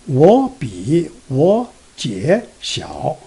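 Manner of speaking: slow "我比我姐小", tones changed, tiny pause before 小; tone change with pause. Shown as a demonstration. Teacher reading the line, changed tones and a little pause before 小. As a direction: read "我比我姐小" slowly, 姐 kept third tone before a slight break. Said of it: "Let me read it".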